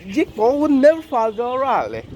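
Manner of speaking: amateur mock English accent, pitched a little up; imitation British accent. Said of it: "that's my imitation of a British accent".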